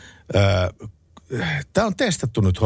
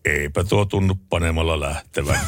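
calm husband; 3 semitones lower than usual. Acted. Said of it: "isäntä edelleenkin rauhallisesti".

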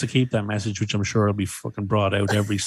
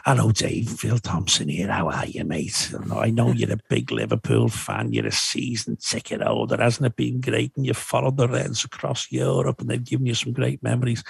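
imitating Phil Thompson. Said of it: "I get the message delivered back".

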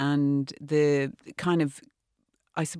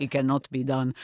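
put-on Spanish accent; 2 semitones lower than usual. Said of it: "He said it in a fantastic Spanish accent".

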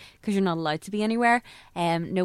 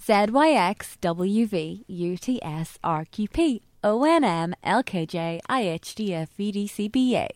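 slow. Shown as a demonstration. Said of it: "do it slow".

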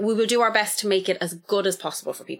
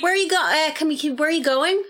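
high indignant mock call-out; imitating the lecturer; 9 semitones higher than usual. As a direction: call a student out like a snippy lecturer. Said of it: "that's exactly what he was like".

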